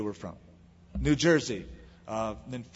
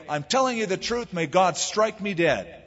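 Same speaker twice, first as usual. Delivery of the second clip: higher-pitched, insistent swearing; vehement oath; 4 semitones higher than usual. Acted. Peter solemnly swearing he tells the truth, vehement. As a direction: swear it emphatically, slowing into the oath. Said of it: "a very vehement, um, demonstrative".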